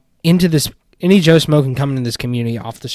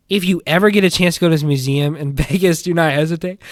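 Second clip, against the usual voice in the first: mocking read; 3 semitones higher, 4 dB louder, faster than usual. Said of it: "he says".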